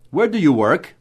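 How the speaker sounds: "Where" stressed, rising again on "work"; correct English question intonation. Shown as a demonstration. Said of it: "Essa entonação correta".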